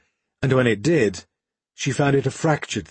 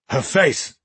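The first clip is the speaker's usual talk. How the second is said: fearful cry; 4 semitones higher than usual. Acted. Sergeant seeing the queen's burns, choked with fear. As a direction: blurt it out in horror. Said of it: "choked and broken by fear".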